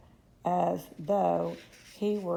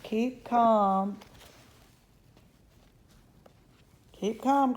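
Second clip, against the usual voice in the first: crying out; 4 semitones higher, 4 dB louder, much slower than usual. Acted. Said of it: "cried Mister Wonka".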